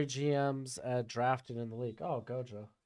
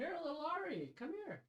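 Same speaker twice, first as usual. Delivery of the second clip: high sing-song voice for a puppy; pet talk; 13 semitones higher, 13 dB quieter than usual. Real, not acted. Calling the little dog over, high coaxing pet voice.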